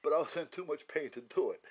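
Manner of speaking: real laugh breaking through the line. Real, not acted. Telling friends about wanting to whack her, laughing. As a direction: laugh at your own punchline. Laughs at his own story.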